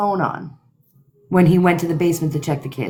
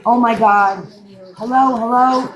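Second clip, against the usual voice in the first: higher, louder mock scream; retold scream; 3 semitones higher, 4 dB louder than usual. Father finding his kids on the call, mock panicked shout. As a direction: call out in alarm without full screaming. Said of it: "Then he's screaming".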